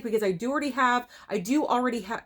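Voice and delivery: rushed words tripping into a restart; stumble, repeat, break off mid-word; hurried, fumbling false start; tongue-tied stumble. Real, not acted. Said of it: "I cannot talk today for anything".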